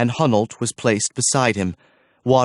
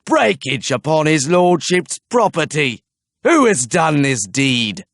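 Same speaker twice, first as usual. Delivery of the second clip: higher and louder, a booming demand; ringing cry; 5 semitones higher, 3 dB louder than usual. A narrator's reading. Archer demands of the silent villagers, ringing loud. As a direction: make it ring round the square. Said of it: "His voice rang around the square".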